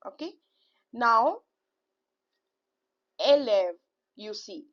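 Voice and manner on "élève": élève said "ay-lev"; closed é, then open è in élève; acute then grave. Shown as a demonstration. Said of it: "So I have two sound".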